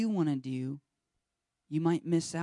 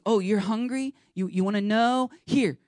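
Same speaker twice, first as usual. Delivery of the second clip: God voiced; 6 semitones higher, 5 dB louder than usual. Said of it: "and God goes".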